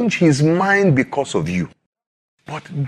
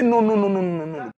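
insistent refusal; 4 dB quieter, faster than usual. Acted. Intercessor refuses God's offered blessing.

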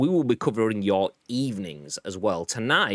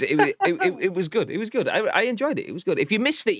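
laughing; 10 semitones higher than usual. Real, not acted. Laughing after his bad impression.

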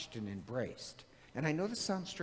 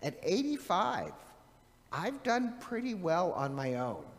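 higher-pitched imitation of mother; mother's retort; 4 semitones higher than usual. Mother answering her scolding son, lightly imitated retort. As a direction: lightly voice a funny mother standing her ground. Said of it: "And my mother, I find her so funny".

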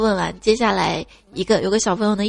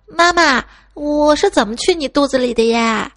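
imitating a toddler, higher pitched; 5 semitones higher than usual. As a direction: ask like a little boy calling mom. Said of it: "两岁半的儿子突然就问我说". (模仿两岁小孩的声音)

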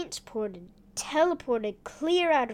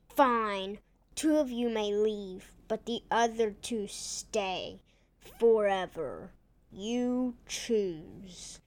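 lightly voiced villain laying down terms; demanding villain; 3 semitones lower, slower than usual. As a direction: lower demanding bad guy voice. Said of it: "Teleport Tom demanded".

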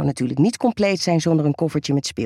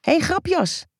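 playful teasing; 12 semitones higher, slower than usual. Acted. Teasing reply.

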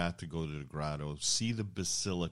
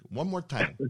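building from muttered dare to a loud, high challenge; a fed-up fan daring him to say it again; mock threat; 6 semitones higher, 4 dB louder, faster than usual. Fed-up fan daring the Michigan fan, rising to a loud challenge. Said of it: "I'm going".

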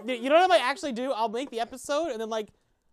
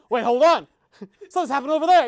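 loud, hurried mock alarm; imitated panic; 6 dB louder than usual. Imitating the panicking sergeant, mock alarm. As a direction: play an officer starting to panic. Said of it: "he's definitely panicking".

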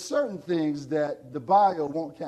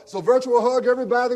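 excited; 6 semitones higher, 8 dB louder, faster than usual. Real, not acted. Leading a virtual hug.

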